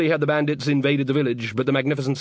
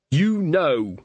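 through a wall; 4 semitones higher than usual. Acted. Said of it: "the muffled voice behind the door".

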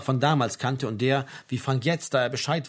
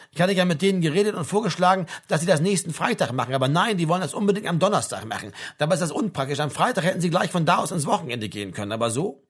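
grumbling army sergeant; 3 semitones higher than usual. Acted. Sergeant complains about the Thursday hearing, grumbling. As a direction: air a petty bureaucratic grievance.

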